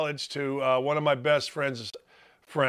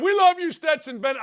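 a lightly voiced, much higher gushing fan; mocking gushing; 11 semitones higher, 3 dB louder than usual. Mocking a TV host who gushes over the quarterback. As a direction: coo it in mock adoration. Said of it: "Elle Duncan's on there saying".

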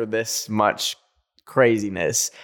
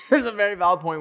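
laughing; 8 semitones higher, faster than usual. Real, not acted. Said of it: "And that is a, that's a very valid point".

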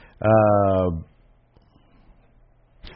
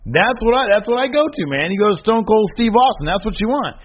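excited insistence; 10 semitones higher than usual. Real, not acted. Excited argument for Stone Cold.

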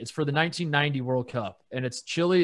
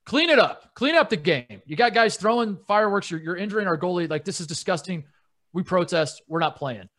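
mock protest; 2 semitones higher than usual. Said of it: "They say".

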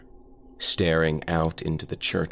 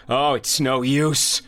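slower, much higher, louder cry of defeat; despairing cry; 10 semitones higher, 6 dB louder, slower than usual. Acted. Carl giving up as the shadow comes, loud despairing cry. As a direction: cry out that it's hopeless. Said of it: "Carl cried".

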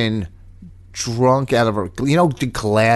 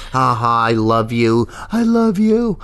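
put-on drunk gushing. Imitating drunk friends in car.

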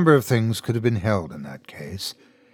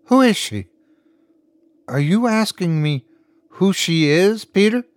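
angry confrontation; 7 semitones higher than usual. Acted. Wife confronts husband.

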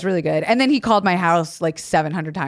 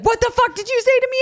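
higher, mock-outraged coach demand. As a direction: play the coach who can't believe his ears. Coach yelling at teen player.

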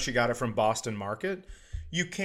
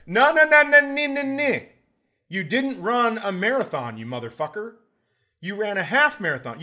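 much higher and louder, ranting no's; mock furious shout; 7 semitones higher, 8 dB louder than usual. Scolding a half-marathon runner, hammed-up shouting. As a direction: yell them down in mock fury.

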